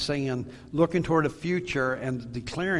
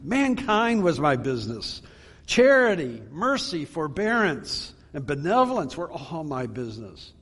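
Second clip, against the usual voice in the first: raised, lamenting cry; Jacob Marley; 3 semitones higher than usual. Acted. Ghost lamenting to Scrooge his wasted business, impassioned cry. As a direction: cry it out with mounting insistence, higher on the listed virtues. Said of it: "cried the ghost".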